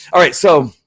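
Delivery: really worked up, driving each point home; fired up. Real, not acted. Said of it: "I'm just fired up right now".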